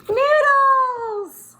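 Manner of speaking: mock excited shout. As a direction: announce it like a thrilling discovery.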